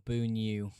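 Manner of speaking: loud "boo new", falling away; "boo new" with an oo ending; trying a pronunciation. Shown as a demonstration. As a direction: sound out "boo new" with force. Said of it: "Who knows how he pronounces his name".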